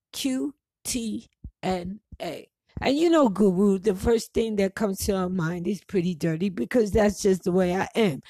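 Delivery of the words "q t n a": whisper. Retold or imitated. Secretive spelled acronym.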